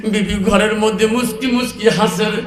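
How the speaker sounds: ordinary talk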